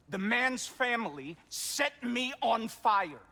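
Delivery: wounded anger; heated retort. Acted. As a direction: fire back in your own defence. Brother argues back, heated.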